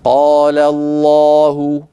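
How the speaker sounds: قال الله drawn out very slowly, mouth wide; open-mouthed recitation. Shown as a demonstration. Teacher reciting slowly to show the reader opening his mouth. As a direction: recite قال الله with every fatha full and slow. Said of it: "يفتح القارئ فمه".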